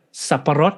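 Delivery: Saparot with a clear Thai glottal stop and rolled R; correct Thai saparot. Shown as a demonstration. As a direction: say Saparot the Thai way, crisp and even. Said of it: "coach the Mickey voice actor on how to say the Thai line".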